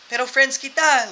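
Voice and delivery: high, loud, drawn-out appeal; mock-hurt plea. Friends answering a threat again, mock-hurt plea. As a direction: appeal slowly as if wounded.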